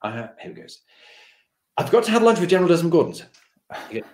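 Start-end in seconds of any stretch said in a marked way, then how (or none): 1.8-3.3 laughing confession. Retold or imitated.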